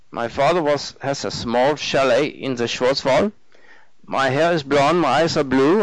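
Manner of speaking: lilting, German-accented self-mockery; eager German man, rising to a punchline; cheerful German student. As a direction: list your traits brightly in a German accent. Narrator voices the German man.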